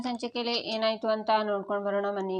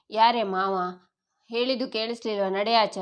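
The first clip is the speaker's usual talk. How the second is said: louder, harsh command to get out; angry order to leave; 4 dB louder than usual. Acted. Kanti throwing the unwelcome girl out, louder and angry. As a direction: shove her out with the voice, loud and cross.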